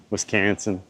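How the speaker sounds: Midwestern Wisconsin accent, flattened middle vowel; Iowa-Wisconsin accent. Shown as a demonstration. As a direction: say "Wisconsin" like "Wis-CAN-sin" in an Upper Midwest accent. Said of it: "my, like, Iowa, Wisconsin accent".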